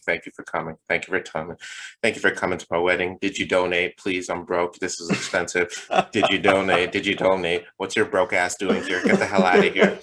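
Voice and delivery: lightly voiced groom greeting guests, turning to a yell at the end; mock greeting guests. Groom to wedding guests, mock polite, then a sudden yell. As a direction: thank them, then kick out the broke ones. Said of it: "shaking hands with the folks".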